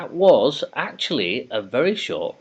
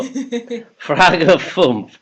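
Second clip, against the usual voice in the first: drawn-out German read; 7 semitones higher, 6 dB louder than usual. Shown as a demonstration. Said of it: "Torsten's loving your German".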